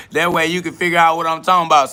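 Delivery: mocking chuckle through the taunt; laughing. Real, not acted. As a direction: laugh at them while explaining. Laughs while taunting commenter.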